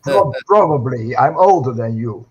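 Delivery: loud, chuckling aside; jokey admission with laughter around it; amused. Real, not acted. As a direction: say it through a chuckle. Joking excuse amid shared laughter.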